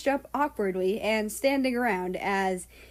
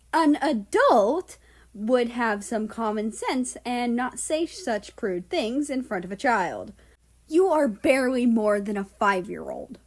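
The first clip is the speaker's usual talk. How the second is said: stern growl; 3 dB louder than usual. Acted. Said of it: "Nazi growled".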